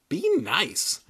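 hushed, scolding whisper. Acted. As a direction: hiss a warning to the dummy. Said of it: "Ethan scolded the dummy".

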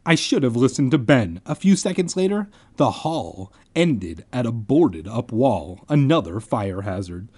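animated audiobook-style reading; story narration. A narrator's reading. Narrator setting up the school dance, storytelling. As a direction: narrate the scene to listeners.

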